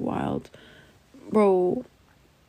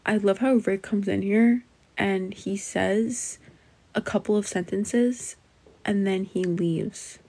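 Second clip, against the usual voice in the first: slow, measured retake with pauses between phrases; deliberate, careful restatement; slower than usual. Shown as a demonstration. Streamer redoing her sentence without filler words, slow and deliberate. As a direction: pick through the sentence slowly and carefully. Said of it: "I said that without any likes".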